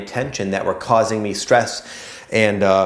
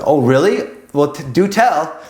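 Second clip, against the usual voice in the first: mock intrigued; 6 semitones higher, 4 dB louder than usual. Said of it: "I said".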